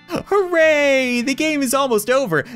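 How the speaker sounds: high, loud gleeful doll cheer; talking doll. Acted. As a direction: squeal it like a creepy happy doll. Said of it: "doll speaking".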